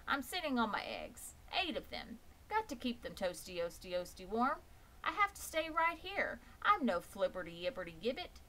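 a fussy goose repeating herself, stuttering the words. Acted. The goose refuses Wilbur while sitting on her eggs, fussy. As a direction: cluck out excuses like a busy mother goose.

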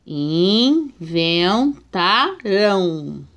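"Inventarão" split into syllables very slowly; "Inventarão" in slow separated syllables; slow syllable reading. Shown as a demonstration. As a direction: sound out "Inventarão" piece by piece. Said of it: "vamos ver a separação".

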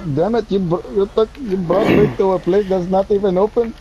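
angry scolding. Acted. Passenger scolds driver over the closed place, angry. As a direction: scold him in stumbling frustration. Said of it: "Don't yell at me".

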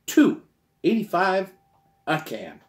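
big excited "Two eighty-five a can"; emphatic repeat. Shown as a demonstration. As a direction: shout the price like it's unbelievable. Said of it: "say it again".

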